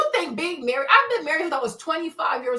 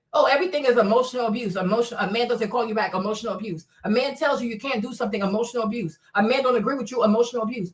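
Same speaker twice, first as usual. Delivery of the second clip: lower, mock whiny voice; 5 semitones lower, faster than usual. Mocking people who call everything emotional abuse, lower and sneering.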